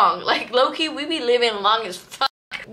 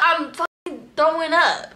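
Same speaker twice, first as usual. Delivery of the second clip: talking through a burp; burpy, queasy voice; 4 semitones higher than usual. Real, not acted. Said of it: "Not throwing up, I'm burping".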